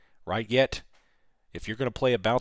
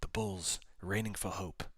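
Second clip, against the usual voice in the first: lightly put-on admiral voice; admiral's market analysis; 4 dB quieter than usual. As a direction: report the market like a mock admiral. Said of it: "Admiral market analysis".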